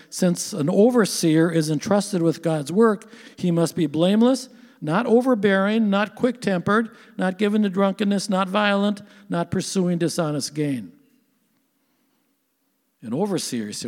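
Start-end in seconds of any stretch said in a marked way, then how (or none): 0.1-10.9 raised, measured Bible-reading voice; scripture reading. Acted. Preacher reads Titus to the church, scripture reading. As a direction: read out each item of the list firmly.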